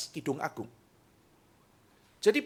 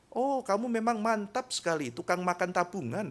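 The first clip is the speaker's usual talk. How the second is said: higher, mock-praising jab; sweet sarcasm; 6 semitones higher, 3 dB quieter than usual. Spouse mocks partner's spending with sweet sarcasm. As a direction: praise with a hidden sting. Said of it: "itu ngomongnya halus".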